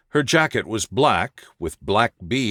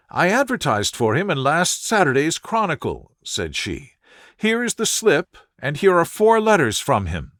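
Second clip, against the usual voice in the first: put-on higher, earnest voice of a worried young woman; anxious young lady; 4 semitones higher than usual. A distressed visitor telling Holmes her fiancé vanished, higher and anxious. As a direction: plead your case, raised and anxious.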